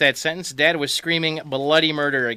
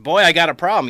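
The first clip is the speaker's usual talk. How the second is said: dad's worried voice; 3 semitones higher, 5 dB louder than usual. Retold or imitated. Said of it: "He said".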